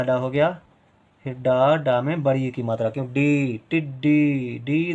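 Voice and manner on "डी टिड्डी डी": डी held long, also ending टिड्डी; long vowel. Shown as a demonstration. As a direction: stretch the ee in डी each time. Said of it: "देर तक आवाज़ आ रही है".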